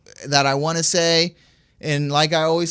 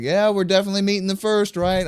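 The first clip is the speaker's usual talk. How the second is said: higher, quicker, lightly voiced keen friend; retold eagerness, pitched up and hurried; eager buddy; 5 semitones higher than usual. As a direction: imitate a buddy rushing to confirm plans.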